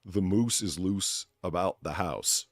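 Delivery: slow careful Canadian accent demo. Shown as a demonstration. Sounding out a Canadian saying for a friend, slow Canadian accent. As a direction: spell out the Canadian vowels slowly. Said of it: "Supposedly for the Canadian accent is to say".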